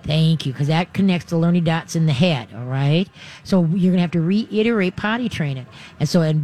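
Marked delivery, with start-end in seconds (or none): 0.0-0.5 very calm thanks. Shown as a demonstration. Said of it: "a very calm".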